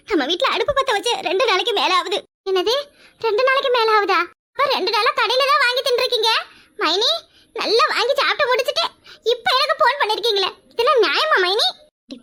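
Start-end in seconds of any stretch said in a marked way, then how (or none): 2.5-11.7 raised, half-laughing complaint; mock-offended sister-in-law. Sister-in-law teasing her mainy, half-laughing mock grievance. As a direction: tease her for eating without you.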